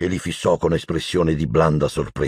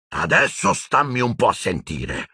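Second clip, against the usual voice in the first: higher-pitched angry retort; angry Hagrid; 6 semitones higher than usual. A narrator's reading. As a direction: demand to be heard, annoyed. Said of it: "rispose Hagrid arrabbiato". (arrabbiato, voce più alta)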